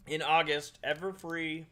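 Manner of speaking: talking with mouth full; eating while talking, mouth full. Real, not acted. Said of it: "Sorry, I'm eating something".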